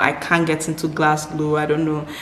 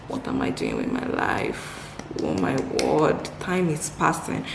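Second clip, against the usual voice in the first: hushed mock panic; 4 semitones lower, 6 dB quieter than usual. Inner panic about life.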